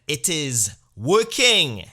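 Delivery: loud, drawn-out, heavily weighted confession; slow heavy repeat. Retold or imitated. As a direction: drag every word out like a sultry growl of pride.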